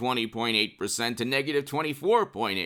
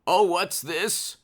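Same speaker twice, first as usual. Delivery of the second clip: slow, higher, feigned discovery; mock surprise; 4 semitones higher, slower than usual. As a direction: pretend to stumble on news. Feigns discovering breaking news.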